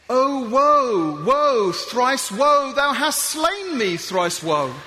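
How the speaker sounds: hammed-up slow dying knight; mock dying lament. Fallen reenactor lamenting to his mate, hammed-up and slow. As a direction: wail it like a ham stage death. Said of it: "your mate falls over and says".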